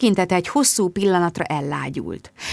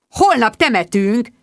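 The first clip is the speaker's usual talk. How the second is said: offended retort; 5 semitones higher, 4 dB louder, slower than usual. Acted. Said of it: "közölte sértetten".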